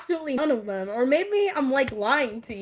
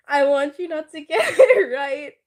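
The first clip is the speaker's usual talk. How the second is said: laughing plea; 5 dB louder than usual. Real, not acted. Nervous laughing plea to viewer.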